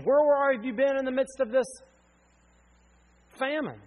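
anguished shout at God. Retold or imitated. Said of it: "Think about Jacob".

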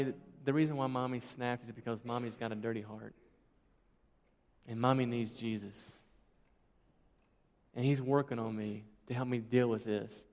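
put-on soft, low explanation to a child; lightly imitated mother confiding quietly; gentle confession.

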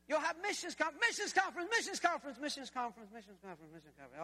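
hyped start sinking to a weary murmur; winding down. Retold or imitated. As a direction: repeat it like a toy running out of power. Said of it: "begins to lose its momentum".

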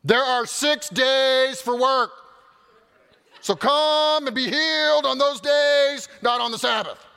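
loud, slow, barking the rule at the crowd; drill sergeant voice. Acted. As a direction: drill sergeant reading the synagogue ruler's rebuke. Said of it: "like, drill sergeant voice".

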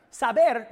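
"saber" said slow and loud; teaching stress. Shown as a demonstration. Pastor teaching the congregation, stressing "saber". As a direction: lean on "saber" as the key word. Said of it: "means to know facts".

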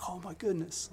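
high, soft little gasp of wonder; child's wonder. Acted. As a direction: marvel quietly like a little kid. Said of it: "you see little kids, like, everything's new".

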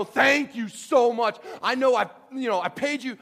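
loud, high, drawn-out thanks; mock gushing gratitude. Boss comes to thank employee, mock effusive. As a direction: gush with hammed-up gratitude.

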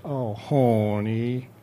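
slow, drawn-out sweet-talk; coaxing wife. Acted. Eve coaxing reluctant husband Adam, slow and sweet. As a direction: stretch it out to win him over.

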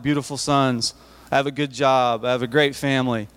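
ordinary delivery

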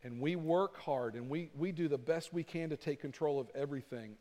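slow, deliberate public prayer; confessing to God in measured phrases; spoken prayer. Acted. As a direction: pray aloud, spacing out the phrases. Leads a closing prayer.

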